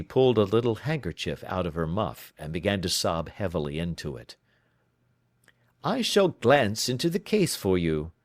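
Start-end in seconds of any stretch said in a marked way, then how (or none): 5.8-8.1 lightly voiced, crisp questioning detective; brisk detective. Holmes questioning his client, crisply. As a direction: probe her story, brisk and in command.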